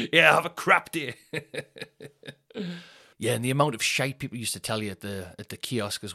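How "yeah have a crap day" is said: deadpan dismissal. Retold or imitated. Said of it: "really funny thing to say".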